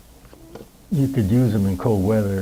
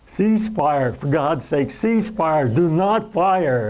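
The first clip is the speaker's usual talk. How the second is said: urgent higher-pitched plea, imitating a scream; mock scream; 5 semitones higher, slower than usual. Soldier on the radio begging artillery to stop, retold mild scream. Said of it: "I start screaming".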